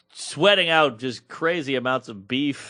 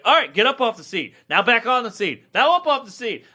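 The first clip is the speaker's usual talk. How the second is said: spin instructor; 6 semitones higher than usual. Retold or imitated. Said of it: "she's like".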